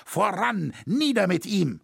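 high, insistent rallying call; crowd's hostile cry. A narrator's reading. Mob turning on the cathedral master, hostile cry. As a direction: pitch it up like a mob calling out. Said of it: "rief es aus verschiedenen Kehlen".

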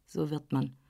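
ein Hauch tiefer, gönnerhafter Herr; leicht gespielter älterer Herr. Acted. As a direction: als älterer Herr väterlich zur jungen Frau. Dorsday spricht, tiefere Stimme. (Herr von Dorsday, leicht tiefer gesprochen, gönnerhaft)

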